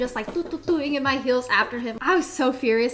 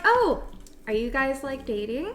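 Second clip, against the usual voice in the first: mock surprise. Feigned surprised question.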